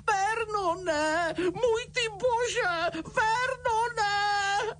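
high, slow, choked wail; choking cry. A narrator's reading. Aunt cries to her husband in shock, choked wail. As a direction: cry his name as if choking. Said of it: "chroptěla, jako když se dusí".

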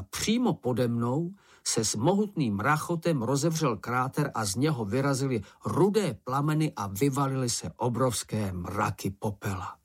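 ordinary delivery

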